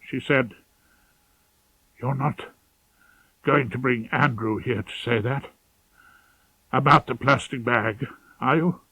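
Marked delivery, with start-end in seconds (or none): 2.0-8.8 a cornered mother barely getting the words out; hoarse, hopeless murmur. Acted. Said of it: "her voice was hoarse and hopeless".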